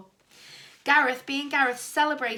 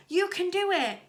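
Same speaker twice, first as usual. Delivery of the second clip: higher, louder cheer; encouraging shout; 8 semitones higher, 4 dB louder than usual. A narrator's reading. Girl cheering for Dennis from the crowd. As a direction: cheer him on from the sideline. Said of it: "shouted Lisa".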